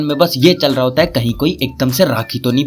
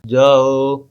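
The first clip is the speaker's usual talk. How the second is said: curt paternal order, slightly lowered; father's voice; 3 semitones lower, much slower than usual. Acted. Father urges son to go, lightly voiced paternal command. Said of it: "बाबूजी की तरफ".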